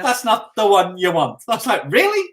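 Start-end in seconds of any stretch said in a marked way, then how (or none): 0.0-1.4 higher, slow Irish lilt; amateur Irish accent, pitched up; attempted Irish accent. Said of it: "I can't do the Irish accent". 1.9-2.3 very high incredulous question; retold high-pitched astonishment; mock disbelief. Retells baffled reaction to directions.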